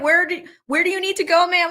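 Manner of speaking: put-on quick, high Boston accent driver; Boston accent, fast and chirpy. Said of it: "I was giving it a Boston accent".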